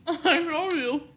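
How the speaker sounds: laughing, slow teasing. Real, not acted. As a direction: laugh through a told-you-so. Laughing at mom's sour face.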